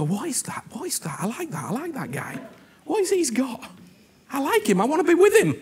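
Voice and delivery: mild mock wonder, swooping pitch; eager onlookers. People drawn to the man with Jesus inside, eager wonder. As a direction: voice curious admirers, rising to keen delight.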